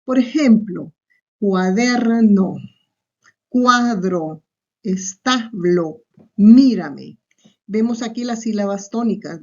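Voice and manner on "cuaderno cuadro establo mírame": "cuaderno, cuadro, establo, mírame" said word by word, leaning on DER, CUA, TA, MÍ; "cuaderno, cuadro, establo, mírame" as separate teaching examples, stressed syllable drawn out. Shown as a demonstration. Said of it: "se pronuncia con más intensidad".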